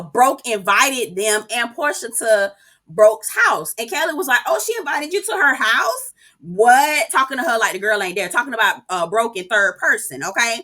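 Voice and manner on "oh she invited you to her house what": high-pitched put-on disbelief; mock incredulous question. Mock astonished quote of Kelly.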